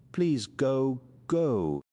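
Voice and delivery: mildly tearful, pushing him to leave; sobbing plea. Acted. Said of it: "she sobbed".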